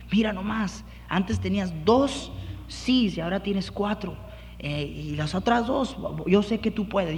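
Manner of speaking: proud dad lifting his son up; gentle affirming parent voice; praising father. Acted.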